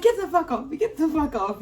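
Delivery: high, loud retold protest; reenacted angry shouting; mock furious yell. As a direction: yell it like fighting off a grip. Reenacting fight with police.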